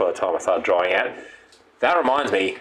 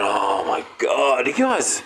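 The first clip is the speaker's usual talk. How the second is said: exasperated; 3 semitones higher, slower than usual. Retold or imitated. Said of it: "I woke up the next morning going".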